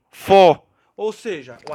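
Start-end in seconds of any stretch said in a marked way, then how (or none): 0.1-0.6 "fó" called out loud and set apart as the stressed syllable. Shown as a demonstration. Teacher calls out "fó" as the stressed syllable of fórum. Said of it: "penúltima".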